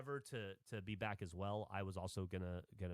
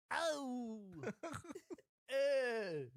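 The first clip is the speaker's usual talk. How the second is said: sour face; 10 semitones higher, 3 dB louder than usual. Real, not acted. Reacting to the sour drink.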